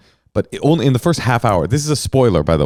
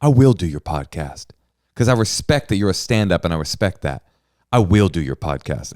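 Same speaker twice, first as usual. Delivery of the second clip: imitating a solemn, earnest promise; a touch of grave sincerity; lightly voiced serious host; mock self-serious Steve. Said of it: "he's so self-serious".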